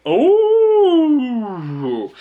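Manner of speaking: sudden high loud exclamation; a high, loud startled oh; surprised oh. Real, not acted. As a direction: jolt of surprise at the card. Sudden reaction to a card.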